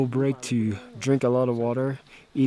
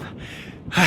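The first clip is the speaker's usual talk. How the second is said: breathless sigh; 6 dB quieter than usual. Real, not acted. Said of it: "I'm so out of breath".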